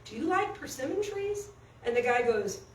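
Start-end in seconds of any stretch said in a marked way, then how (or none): 0.1-1.5 lightly acted, higher-pitched chatty question; friendly old man. Old man chatting as he walks over to the drunk, friendly. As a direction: make friendly small talk in a raised voice. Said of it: "he's all friendly and everything".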